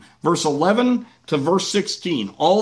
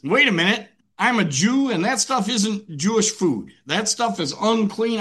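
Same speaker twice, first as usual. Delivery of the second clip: protesting Peter; 5 semitones higher than usual. Acted. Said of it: "Peter looks at it and says".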